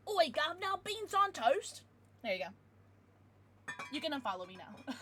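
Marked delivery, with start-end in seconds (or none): 0.1-1.8 exaggerated British accent, drawn out; offensive British accent. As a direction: ham up a cartoon British accent. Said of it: "my offensive British accent".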